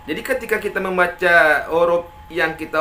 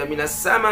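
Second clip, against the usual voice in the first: "minas sama" held long, ending in a raised catch; an-nabr on final hamzah. Shown as a demonstration. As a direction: lift the last beat of "sama". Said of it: "kita nabarkan". ("minas sama" dengan tekanan di ujung)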